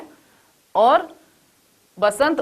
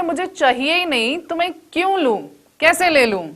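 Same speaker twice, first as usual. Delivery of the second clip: exasperated refusal; 5 semitones higher than usual. Retold or imitated. Exasperated refusal, higher pitch.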